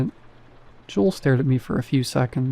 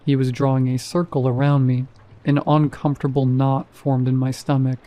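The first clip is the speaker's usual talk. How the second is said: plain reading voice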